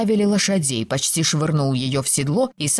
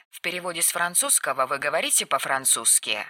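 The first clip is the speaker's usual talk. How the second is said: soft, lowered aside; quiet footnote; 8 dB quieter than usual. A narrator's reading. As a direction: step out to read a translation softly. Translator's footnote read as aside. (тихая сноска)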